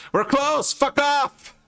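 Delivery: high barking hag voice; grumpy hag. Acted. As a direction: yell at customers like an old hag. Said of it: "the hag itself goes".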